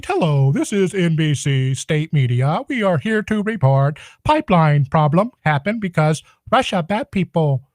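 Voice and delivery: a hint of a dumb state media reader; mocking newscaster. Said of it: "That stupid little tone they do".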